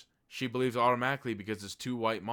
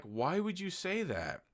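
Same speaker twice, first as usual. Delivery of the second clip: high baffled voice; 10 semitones higher, slower than usual. Retold or imitated. Characters react to threat.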